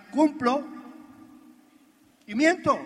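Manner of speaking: "cumplo" and "y miento" punched high and loud with a long pause between; split into two words. Shown as a demonstration. Speaker to partners, stresses "cumplo" and "y miento". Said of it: "Como las dos palabras dicen".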